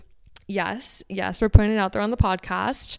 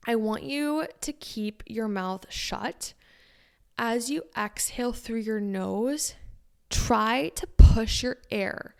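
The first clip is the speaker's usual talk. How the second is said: guided breathing; slower than usual. Shown as a demonstration. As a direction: coach the breath gently and slowly. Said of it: "So basically what you do".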